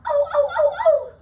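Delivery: high, loud squealing oh oh oh; excited squeal. Acted. Jo squealing at the clubhouse balloon, a delighted high squeal. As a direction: squeal with delight like a thrilled kid. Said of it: "Then she squealed".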